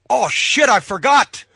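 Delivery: sudden high, loud oh shit; caught-out yelp. Retold or imitated. Referee realizing he forgot to rig the chair, loud startled yelp. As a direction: blurt it like you just remembered too late. Referee retells his panicked blurt.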